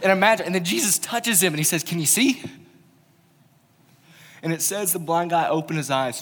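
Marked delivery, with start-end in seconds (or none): 1.8-2.4 gentle question. Retold or imitated. Jesus asks the healed man.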